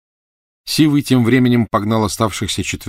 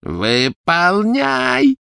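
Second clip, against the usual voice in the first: much higher, frantic shriek; 11 semitones higher, 3 dB louder, slower than usual. A narrator's reading. Bellatrix screeching at Narcissa in panic. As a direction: scream it at her sister in terror. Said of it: "завизжала Белатриса".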